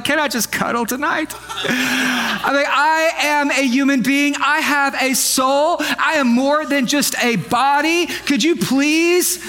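slow, put-upon plea, drawn out; mock-wounded husband begging his wife; tired husband pleading. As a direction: beg like a worn-out husband.

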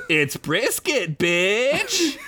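slow, breaking into laughter; cackling retort; laughing. Acted. Gleeful retort.

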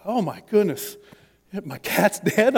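mock horrified. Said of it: "like, horrified".

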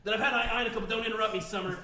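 lightly voiced burpy mad scientist; a hint of a cranky grandpa genius; Rick voice.

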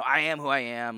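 tossed off, like whatever; offhand, careless, like it means nothing; dismissive shrug. Shown as a demonstration. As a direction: say it as a throwaway shrug, not a grand claim. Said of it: "like, whatever".

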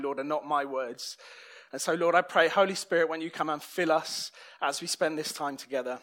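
heartfelt prayer. Real, not acted. Pastor leads opening prayer.

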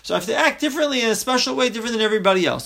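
quick, lightly voiced self-important boast; a mild show-off telling himself how special he is; imitating an arrogant man. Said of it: "he thinks".

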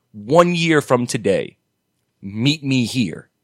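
lightly voiced robot, very slow and deliberate; slow Terminator voice. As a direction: spell out a solemn Terminator promise. Playing Terminator to drunk fan.

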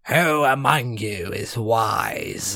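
slow, low dwarf door voice; a hint of a slow stone guardian; talking rock. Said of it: "and the dwarf says".

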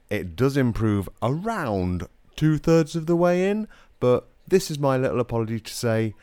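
like talking underwater. Real, not acted. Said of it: "sounding like you're underwater in the nineties".

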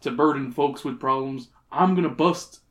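put-on folksy old prospector voice. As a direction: talk like a rustic old-timer. Reads old prospector's dialogue.

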